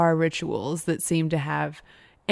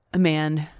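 slow, fading to a whisper; dramatic slowdown; much slower than usual. Real, not acted. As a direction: draw it out for suspense.

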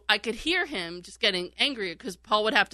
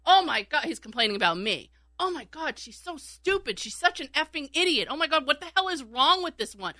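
imitating the host's whiny rant, higher; higher-pitched mock griping about her; mocking complaint; 6 semitones higher than usual. Host griping on air about his screener, mocking whiny rant. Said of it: "he is complaining".

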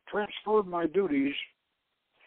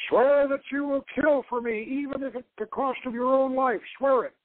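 shouted command; 6 semitones higher than usual. A narrator's reading. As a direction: demand the oath at full voice. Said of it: "he shouted".

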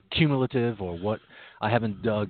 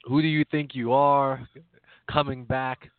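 mock indignant; 3 semitones higher than usual. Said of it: "I think the attitude was more".

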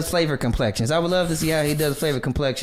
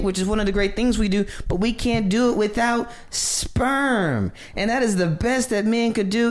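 comedian's voice; 6 semitones higher than usual. Retold or imitated. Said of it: "She was like".

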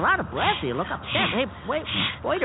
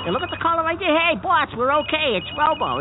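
excited; 9 semitones higher, 3 dB louder than usual. Acted. Phone rings, Robo calling.

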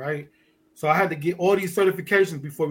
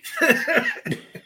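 high burst of laughter. Real, not acted.

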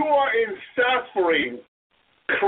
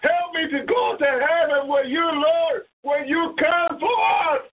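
heartfelt prayer; 4 semitones higher than usual. Acted. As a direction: start trusting, rise into begging. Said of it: "to say those words from your heart to God".

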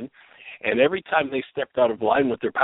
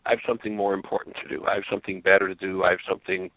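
dismissive excuse; 4 semitones lower, faster than usual. Retold or imitated. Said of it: "will cause the mind to say".

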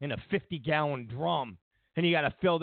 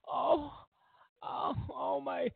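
slow, higher, gushing mock worship; higher and slower hammed-up adoration, ending in a shout; mock adoring fan; 9 semitones higher, slower than usual. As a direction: lay it on thick like a swooning admirer. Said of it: "you gotta stand up".

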